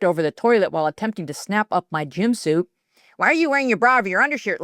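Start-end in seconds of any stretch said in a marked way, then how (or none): 3.2-4.6 scream. A narrator's reading. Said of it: "screamed Cindy".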